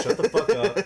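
retold hush-up order. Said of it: "I tell him".

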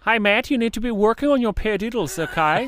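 high, loud mock German drum teacher; imitating drum teacher. Drum teacher nagging his student about paradiddles, high and loud. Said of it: "He sounds adorable".

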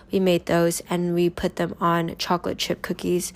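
normal talking voice

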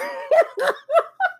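high giggle at herself; high laugh. Real, not acted. Podcaster laughing at her past self, high giggle. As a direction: burst into a giggle.

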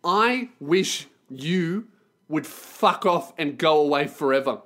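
tag. Retold or imitated. Inner wish aimed at Kiwi.

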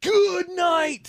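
high, loud shout of disbelief; drawn-out, high-pitched shock; shocked exclamation. Real, not acted. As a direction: cry out in astonishment.

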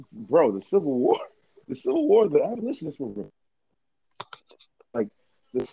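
choppy call audio; bad connection. Real, not acted. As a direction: voice cutting out on a bad line. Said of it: "Saeed, you're breaking up".

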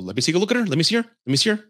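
imitated eager begging; eager pestering. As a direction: mimic someone badgering for a look, pitch climbing. Friend pestering to see match.

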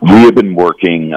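slow, worn-out rough voice; hoarse voice. Real, not acted. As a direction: voice shot from a long day. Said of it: "my voice is a little shot".

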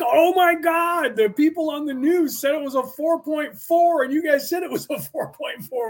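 high, amazed imitation of a girlfriend; mock-astounded high voice; excited girlfriend. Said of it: "she's all excited".

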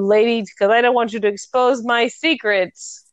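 lightly voiced American tough guy; a hint of storybook villain making threats; big bad guy. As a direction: play a mock American heavy, lightly. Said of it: "I'm gonna do my American accent".

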